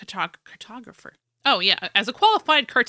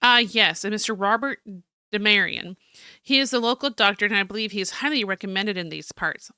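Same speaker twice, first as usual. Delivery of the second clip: theatrical journal read-aloud; story narration. Acted. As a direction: read it out like a dramatic diary. Reads journal aloud as character.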